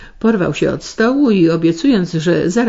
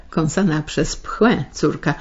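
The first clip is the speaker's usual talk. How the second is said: plain reading voice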